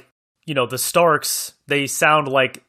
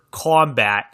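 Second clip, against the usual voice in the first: imitating a Boston-accented "combat". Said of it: "says it with a Boston accent".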